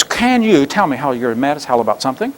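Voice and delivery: soft, even delivery; calm voice despite the angry words. Shown as a demonstration. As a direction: say it calmly and softly. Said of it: "using a nice, calm voice".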